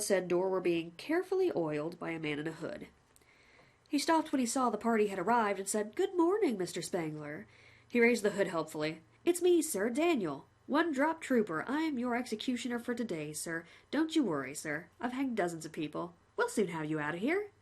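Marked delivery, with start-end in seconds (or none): 5.9-17.5 lightly voiced chatty executioner; a hint of a friendly hangman; the hangman greeting the condemned man, cheerfully; cheery hangman. Hangman Daniel speaks.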